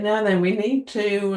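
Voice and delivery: imitated boss addressing staff; person in charge. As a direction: take charge of the meeting. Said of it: "whoever's in charge is saying".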